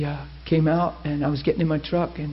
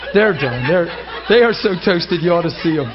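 laughing remark; 2 semitones higher, 7 dB louder than usual. Real, not acted. Laughing at the moved congregation.

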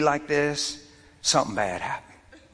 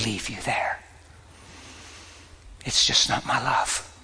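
a lower, hushed voice of God speaking tenderly, sinking to a whisper; God making peace with a weary wife, in a lower, hushed voice; 4 semitones lower than usual. Retold or imitated. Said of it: "guess what he says to her".

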